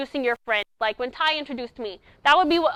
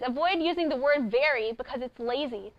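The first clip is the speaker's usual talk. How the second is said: quoted speech. Acted. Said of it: "It says".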